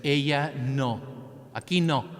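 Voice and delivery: curt refusal. Retold or imitated. Doctor refusing the sick girl at the door, curt and loud. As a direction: shut them out flatly, raising the voice. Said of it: "he said".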